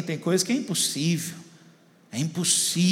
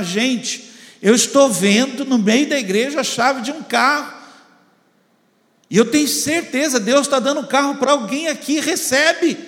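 high, raised-voice proclamation, acting out the shocked pastor; retold shouting; 6 semitones higher, 5 dB louder than usual. Shocked pastor announces a car to the congregation, mock shouting. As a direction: imitate a preacher crying out a vision, high-pitched. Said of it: "ele começou a gritar".

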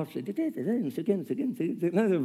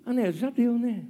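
weary inner voice; 6 semitones higher, slower than usual. Retold or imitated. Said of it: "aquela sensação de".

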